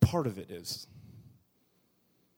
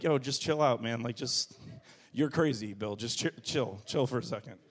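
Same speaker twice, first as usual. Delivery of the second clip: calming wife; 4 semitones lower than usual. Retold or imitated.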